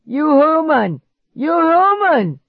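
high, loud monster voice; demanding monster. A narrator's reading. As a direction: demand it, strangled. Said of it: "he demanded".

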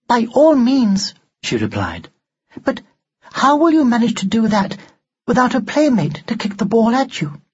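high, prim and emotionless; an old-fashioned doll speaking without feeling; expressionless doll voice. A narrator's reading. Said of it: "Expressionless, as always".

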